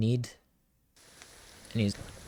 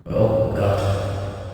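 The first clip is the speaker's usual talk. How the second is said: ordinary talk, nothing marked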